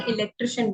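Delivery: "इलेक्ट्रिशियन" with a short ri and -shən; corrected electrician; correct pronunciation. Shown as a demonstration. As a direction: say "इलेक्ट्रिशियन" as i-lek-tri-shən. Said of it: "इलेक्ट्रिशियन सही pronunciation".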